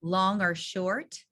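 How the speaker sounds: slow, lifted teacher question; teacher prompt. Shown as a demonstration. Teacher quizzing pretend students, slow prompt. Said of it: "you become the students".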